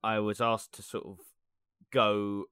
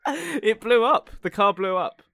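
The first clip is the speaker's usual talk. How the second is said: higher, louder, slow stress on blew up; emphatic repeat; 10 semitones higher, 6 dB louder, slower than usual. Real, not acted. Repeats to a stunned friend that the car blew up, slow and loud. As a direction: spell it out again for the doubter.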